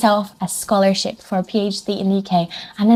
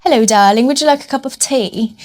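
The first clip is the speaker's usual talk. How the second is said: mock Queen's English; prim, proper royal English; posh British. Expecting the UK to sound like the Queen, mock posh British. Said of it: "would sound like the Queen".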